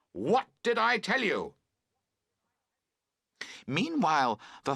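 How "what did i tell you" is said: loud high reproach; calling out. A narrator's reading. Camper yelling at his friend over the fallen tent, reproachful. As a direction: fling the accusation across the tent. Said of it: "you both call out".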